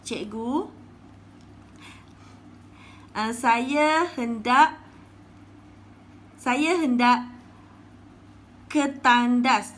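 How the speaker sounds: loud, slow pleading pupil; pupil asking permission. Acted. Pupil Bazli asks the teacher if he may go to the toilet, pleading loudly. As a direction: beg the teacher to let you go.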